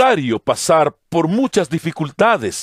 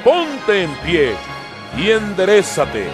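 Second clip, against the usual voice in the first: strong command; 9 semitones higher, slower than usual. Acted. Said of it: "le ordenó con voz fuerte".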